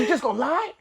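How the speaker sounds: high exaggerated scolding; mock angry dad. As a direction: ham up the outraged parent. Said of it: "I was like".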